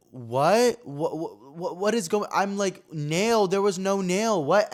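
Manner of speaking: high, baffled stumbling over words; acted incredulous protest; stammering disbelief. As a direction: replay being baffled, stuttering and high. Acting out his disbelief at claim.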